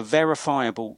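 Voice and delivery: "verifiable" said with deliberate emphasis; stress on verifiable. Real, not acted. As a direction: lean on the word "verifiable". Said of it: "I want to stress the word verifiable".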